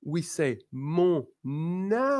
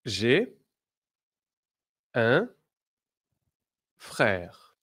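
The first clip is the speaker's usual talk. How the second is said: louder, word by word model with a falling end; clear model phrase; 4 dB louder, much slower than usual. Shown as a demonstration. Teacher drilling the class, loud and separated. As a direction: say each word out clearly for repeating. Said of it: "Repeat after me".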